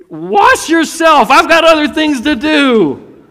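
high, loud, impatient father calling back; exasperated shout. Retold or imitated. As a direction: yell from the other room, short on patience.

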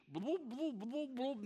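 soft imitated bubbling, mildly voiced; sinking bubbles. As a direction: play him going under with quiet bloops. Imitating Peter sinking underwater.

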